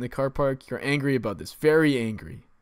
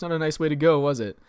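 sarcastic narrator; 5 dB louder than usual. Retold or imitated. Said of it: "the sarcastic remarks".

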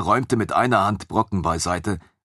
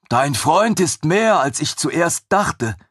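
high, loud and slow wonder; impressed chained creature; 9 semitones higher, 4 dB louder, slower than usual. Acted. Captive creature telling the narrator about Ragnar, high amazed and slow. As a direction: marvel at him, drawn out high.

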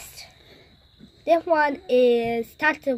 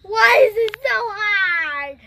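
high, slow, strained whine; wailing through a sour mouthful; eating sour candy; 6 semitones higher, 5 dB louder, slower than usual. Real, not acted.

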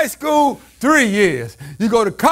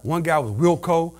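much lower, softer, fast side remark; quiet aside; 10 semitones lower, 9 dB quieter than usual. Acted. Preacher muttering a fast aside to the church. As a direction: drop into an offhand mutter.

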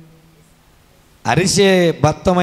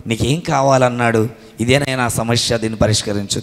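gentle Jesus; 7 semitones lower than usual. Acted.

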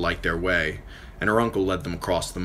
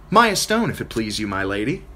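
put-on cocky girl; 4 semitones higher, 3 dB louder than usual. Maya introduces herself.

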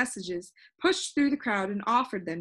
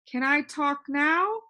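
higher, slow, happy question; a boy glad to hear his own voice; happy cry; 6 semitones higher, 4 dB louder, slower than usual. A narrator's reading. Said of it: "cried Milo, happy".

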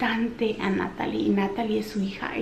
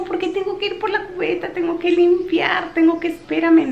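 put-on still toddler whine; 8 semitones higher, 4 dB louder than usual. Samuel whines while mom cleans, higher whine. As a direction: keep whining like a toddler. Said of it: "Y le digo".

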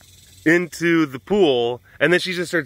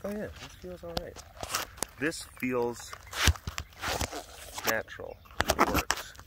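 voiced contented cat; 12 dB quieter than usual. Voices cat trying out hiding spot.

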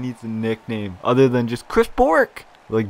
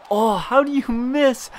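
disbelief; 14 semitones higher than usual. Real, not acted. Shocked at a missed open net.

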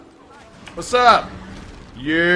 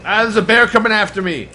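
taunting a bear, louder and higher; 3 semitones higher, 4 dB louder than usual. Real, not acted. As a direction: goad the bear, loud and cocky.

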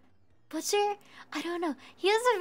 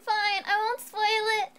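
grudging concession; 5 semitones higher than usual. Real, not acted. Gives in reluctantly.

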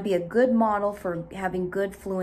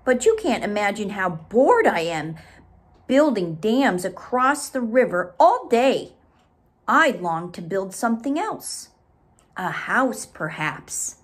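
Beaver; 5 dB louder than usual. Acted. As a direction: complain about dull dam work. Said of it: "said Beaver".

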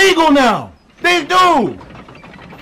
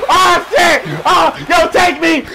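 excited. Real, not acted. Cheering at Nintendo.

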